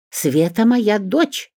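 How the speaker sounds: high, slow, loud squeal; shrill squeal. A narrator's reading. Olga claiming her daughter, squealing high and slow. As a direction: shriek it out in outrage. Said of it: "взвизгнула Ольга".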